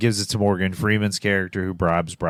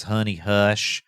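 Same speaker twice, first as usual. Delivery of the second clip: imitating Boggs; slower than usual. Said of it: "I hate the way he says honey".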